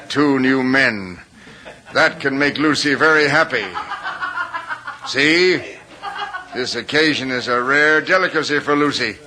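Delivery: mocking chuckles through the words; bitter laughing. Wounded husband mocks his wife's new visitors, bitter laugh.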